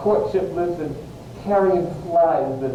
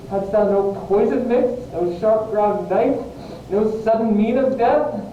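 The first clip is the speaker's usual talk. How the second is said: desperate challenge; 4 semitones higher than usual. Acted. Romeo challenges the friar.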